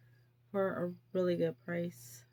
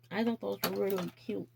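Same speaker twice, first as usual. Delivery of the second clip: words just as she bites her tongue; talking as teeth catch tongue; faster than usual. Real, not acted. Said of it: "Ow, I just bit my tongue".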